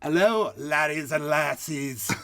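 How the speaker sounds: slow, hammed-up Irish accent. Host opens the podcast in a mock Irish accent. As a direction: greet them in a bad Irish brogue. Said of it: "This is my Ireland accent".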